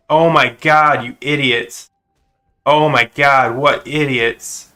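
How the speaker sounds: exasperated outbursts at the team, the last words dragged out slowly; angry. Real, not acted. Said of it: "Sorry, I'm angry".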